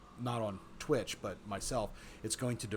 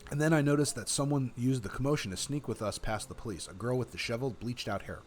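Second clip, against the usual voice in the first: measured, expressive read-aloud; story narration; 3 semitones higher than usual. A narrator's reading. Player reading the game's story to viewers, story narration. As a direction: narrate it like an audiobook.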